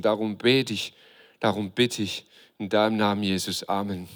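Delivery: prayer. Real, not acted. Prays for the series. (leises, ernstes Gebet)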